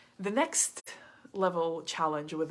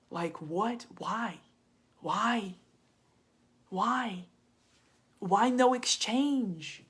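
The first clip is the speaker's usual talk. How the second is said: higher and louder, rising disbelief; exasperated inner voice; 4 semitones higher, 6 dB louder, slower than usual. Retold or imitated. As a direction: scold yourself in mounting disbelief. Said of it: "my higher self ... goes like".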